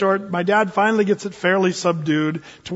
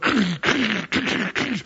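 rumbling truck noise; 4 dB quieter than usual. Retold or imitated. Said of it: "the whole truck was just going".

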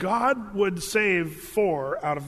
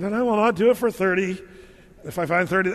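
hammed-up Lord; 4 dB louder than usual. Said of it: "maybe the Lord didn't say it like that".

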